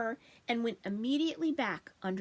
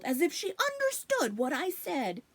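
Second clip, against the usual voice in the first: hushed aside, higher; whisper; 7 semitones higher than usual. Acted. Bunny whispering about the girl, hushed. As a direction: whisper it behind a paw.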